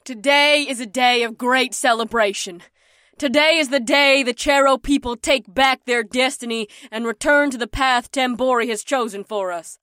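booming royal proclamation; bombastic. Acted. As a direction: proclaim it to the whole crowd. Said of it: "in a bombastic voice".

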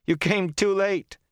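very high, slow, overwrought cry; overwrought reproach. A narrator's reading. Rand to friends who came late, overwrought. Rand, about to laugh helplessly.

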